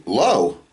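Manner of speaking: lo said as loh, long o, slow; slow Hebrew lo. Shown as a demonstration. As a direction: say lo like an Israeli answering no. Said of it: "they say".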